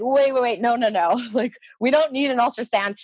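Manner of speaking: mild mock alarm; alarmed protest. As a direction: cut in to object, recounting it. Retold protest to the doctor.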